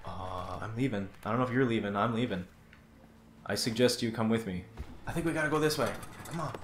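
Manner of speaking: hushed sneaky voice; whispering. Real, not acted. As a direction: keep it low like sneaking. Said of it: "Why am I whispering?".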